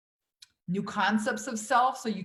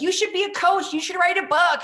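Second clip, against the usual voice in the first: high mock voice of eager friends; mimicking friends; 9 semitones higher, 4 dB louder than usual. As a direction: play the gushing friends, pitched up.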